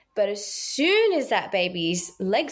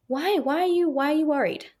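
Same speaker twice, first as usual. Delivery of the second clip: high-pitched repeated why; imitated puzzled questioning; 8 semitones higher than usual. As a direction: ask the worried student why, in a raised voice. Acts out her reply to students.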